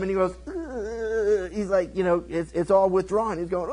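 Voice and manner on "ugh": strained mock groan; acted groan. King as his hand shrivels, acted groan. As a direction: groan as if your hand just withered. King's hand suddenly withers.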